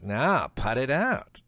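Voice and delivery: slow, drawn-out imitation of a stubborn friend; lazy mock order to finish the putt; Norm's insistence. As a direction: stretch it out, unbudging. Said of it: "he'd be like".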